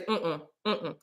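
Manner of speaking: soft, low closed-mouth mm-mm; short refusing hum. Retold or imitated. Host mimics how other people refuse, short hummed no. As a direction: hum a quick, quiet no. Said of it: "some of y'all just say".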